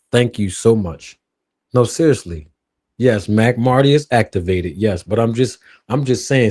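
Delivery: low, smooth crooner talk to the ladies. Pretend. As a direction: croon it like an R&B singer sweet-talking fans. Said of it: "I have to put my R and B voice on for the ladies".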